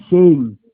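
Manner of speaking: "Shem" said as "Shaym", falling at the end; "Shem" rhyming with "name"; Hebrew pronunciation. Shown as a demonstration. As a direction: say "Shem" with a long ey, like "shame". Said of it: "Pronunciation ng kanyang pangalan".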